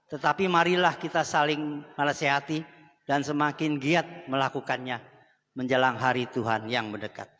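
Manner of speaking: scripture reading. Acted. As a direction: read the Bible verse together with the church, deliberately. Congregation reads scripture together.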